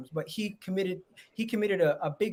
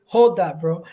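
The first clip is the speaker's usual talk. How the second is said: gleeful teasing shout; 11 dB louder, slower than usual. Real, not acted. Teasing a rival fan loudly.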